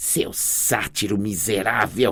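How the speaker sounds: hushed, snarling, growling voice. Narrating a fight scene, a character curses a satyr who just struck her, snarling.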